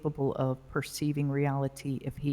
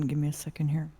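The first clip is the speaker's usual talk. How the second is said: whispering; much faster than usual. Real, not acted. Judge stalling for time.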